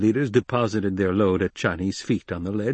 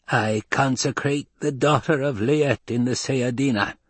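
put-on husky old woman; 4 semitones higher than usual. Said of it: "husked the old woman".

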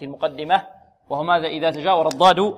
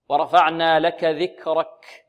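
slow verse with heavy ra and breathy kaf; slow recitation; 3 dB louder, slower than usual. Shown as a demonstration. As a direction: recite it slowly. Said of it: "models verse". (ترتيل بطيء)

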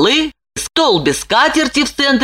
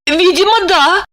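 much higher woman's voice, resigned; shrugging reply; 12 semitones higher than usual. A narrator's reading. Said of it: "пожимая плечами".

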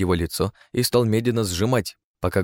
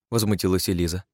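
plain reading voice

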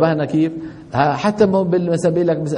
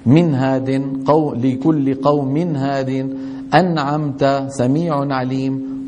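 slow, measured Quranic recitation; tajweed recitation; slower than usual. Acted. Teacher reciting Quran examples to students, slow and measured. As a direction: lay out each example word by word, slowly.

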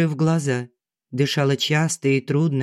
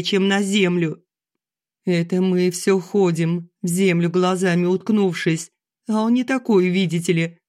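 tearful complaint; 5 semitones higher than usual. Acted. Mother crying to daughter.

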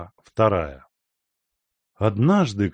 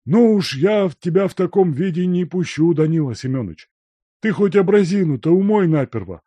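put-on high, loud, fast nagging old man; fussy scolding servant; 9 semitones higher, 6 dB louder than usual. A narrator's reading. Servant refusing to let the dirty guest in, high and nagging. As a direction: scold him like a mother hen.

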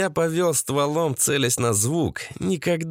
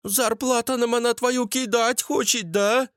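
high-pitched foreign worker's question; Abdulloh; 10 semitones higher than usual. Acted. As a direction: pitch it well above your own voice, questioning. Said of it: "спросил Абдулох". (высокий голос гастарбайтера)

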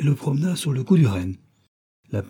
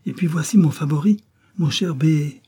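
put-on robber girl voice; 6 semitones higher than usual. Robber girl shows favourite.

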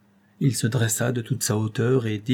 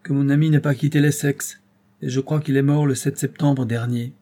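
grave, unrelenting verdict; Robert naming the date of death to the old man, solemn; solemn and pitiless; 4 semitones higher, 4 dB louder than usual. Acted. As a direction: pronounce it like a sentence. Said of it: "de la même voix solennelle et impitoyable".

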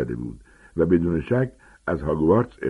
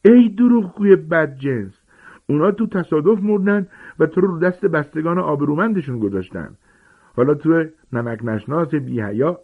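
furious aunt shrieking; enraged shrieking; 9 semitones higher, 4 dB louder than usual. Acted. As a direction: scream at the liar in fury. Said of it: "از خشم برافروخته شده بود فریاد زد".

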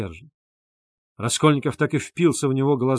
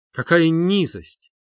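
indignant cry; 5 semitones higher, 4 dB louder, slower than usual. A narrator's reading. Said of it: "повторил Лебезятников".

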